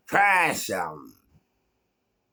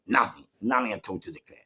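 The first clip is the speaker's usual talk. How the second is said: ordinary talk, nothing marked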